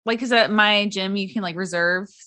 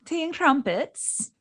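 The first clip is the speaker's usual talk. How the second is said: "Tea and crumpets" said slowly in a put-on British accent, softer; British accent demo; 5 semitones higher, 6 dB quieter, slower than usual. Shown as a demonstration. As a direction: show her the proper British way. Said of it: "Did I say that right?".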